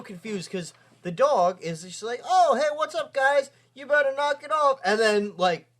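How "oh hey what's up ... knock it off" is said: high, breezy cartoon dog greeting; put-on high voice for a retold dog.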